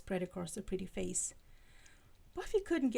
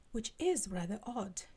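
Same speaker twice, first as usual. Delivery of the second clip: British accent. Shown as a demonstration. A second, lightly British Giles voice. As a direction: redo of the line in a poor British accent, Giles-like. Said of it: "very poor attempts at doing a Giles accent".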